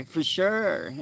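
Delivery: put-on high-pitched, drawn-out Valley Girl. Shown as a demonstration. Streamer showing viewers how a Valley Girl talks, high Valley Girl voice. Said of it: "what Valley Girl is".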